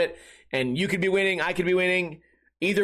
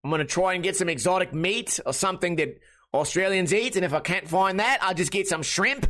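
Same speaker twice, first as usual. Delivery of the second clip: hammed-up Aussie accent; jokey, broad Australian mate talk; funny Australian accent. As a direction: put on a comic Australian accent. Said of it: "just do a funny accent".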